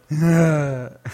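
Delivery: wordless noise with tongue stuck out; imitated tongue-out noise. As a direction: mimic her tongue-out sound. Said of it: "It is always the".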